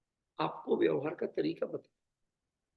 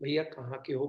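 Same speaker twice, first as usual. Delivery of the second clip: gentle asking; 5 semitones lower, 5 dB quieter than usual. Retold or imitated. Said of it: "मैंने उसे बड़े प्यार से नाम पूछा".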